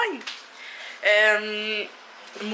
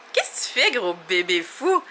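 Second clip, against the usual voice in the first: put-on baby talk; 4 semitones lower than usual. Mom teasing toddler, baby talk.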